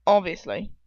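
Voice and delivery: trying out an English accent; English-accented take on the word. Shown as a demonstration. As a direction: put on an English accent for Ron. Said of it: "it has to have the English accent".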